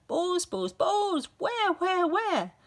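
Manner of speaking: high, loud frantic shouting; hammed-up teacher losing it; frantic yelling. A narrator's reading. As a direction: yell it in a wild panic.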